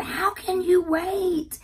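husband asking. Retold or imitated. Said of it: "My husband said".

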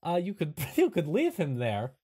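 lightly voiced quirky camp host; helpful but hesitant character voice; Igor. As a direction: offer the odd suggestion in character. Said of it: "And Igor says".

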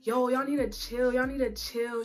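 mock New Yorker telling them to calm down; New York accent. Friend from New York breaking up the fight, imitated in her accent. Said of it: "one from New York".

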